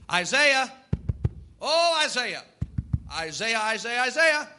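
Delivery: mock summoning, name called over and over; lightly hammed-up repeated name call; calling a name repeatedly. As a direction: act out calling someone who isn't answering. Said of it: "have to call their name multiple times".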